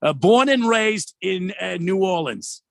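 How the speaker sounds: put-on New York-like New Orleans accent, drawn out. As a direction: imitate a New Orleans local with a Jersey-like accent. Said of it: "New, New York, New Jersey sort of accent".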